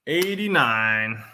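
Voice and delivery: "Eighty-nine" drawn out slowly, as an announcement; raffle caller. Shown as a demonstration.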